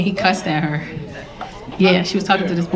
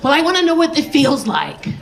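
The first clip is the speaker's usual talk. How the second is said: protesting daughter; 5 semitones higher than usual. Retold or imitated. Voicing her daughter's protest.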